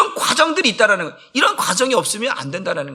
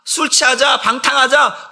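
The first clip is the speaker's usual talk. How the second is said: lightly acted drinking buddies, higher pitched; old friends calling; 3 semitones higher than usual. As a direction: urge a friend to come out and party. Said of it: "옛사람들이 부르면". (술 먹자고 살짝 높은 소리로 부르는 옛 친구들)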